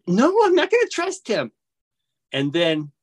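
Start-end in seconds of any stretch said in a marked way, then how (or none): 0.1-1.5 high-pitched, insistent retold protest; exasperated inner objection, acted out; adamant refusal. Refusing the inner voice once more.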